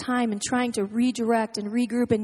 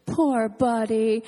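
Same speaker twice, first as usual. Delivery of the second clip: slow, lower cooing pity for a little brother; mock pitying coo; 5 semitones lower, much slower than usual. Sister coddling her brother, slow mock pity. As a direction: coo over him like a tiny mother. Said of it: "what she'll do to Eli".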